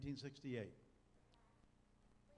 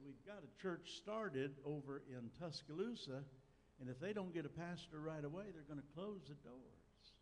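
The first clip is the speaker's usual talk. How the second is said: Fred Vines; 3 semitones higher than usual. Retold or imitated. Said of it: "in his southern accent".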